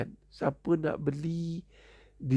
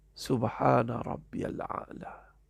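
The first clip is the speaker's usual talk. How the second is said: slow recitation; 3 semitones lower, slower than usual. Shown as a demonstration. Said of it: "Dalam sujudnya Nabi membaca".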